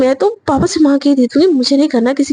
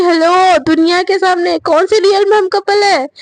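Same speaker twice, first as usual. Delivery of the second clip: a snapped, indignant comeback; angry retort; 4 semitones higher than usual. Acted. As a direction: bite back in sudden anger. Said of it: "Shreya ना एकदम गुस्से में बोल देती".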